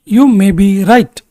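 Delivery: very slow, each word spaced out; slow, clear repetition. Shown as a demonstration. Teacher repeating for students, slow and deliberate. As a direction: say it again slowly for learners. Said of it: "teacher models sentence twice".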